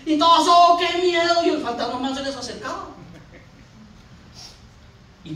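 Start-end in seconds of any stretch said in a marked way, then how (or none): 0.5-1.4 mock fright. Acts frightened disciples.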